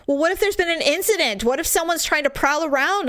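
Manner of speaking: high, fast anxious worry; mock panic. Wife fretting to husband about prowlers, high and fast. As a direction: spin out worst cases quickly.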